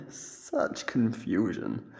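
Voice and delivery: amused laugh. Acted. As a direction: savour their confusion, laughing. Captor watches prisoner search.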